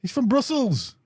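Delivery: a hint of a hammed-up French accent; mock French accent. To a friend, joking in a light mock French accent. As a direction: play the Frenchman lightly, a touch haughty. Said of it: "this outrageous French accent".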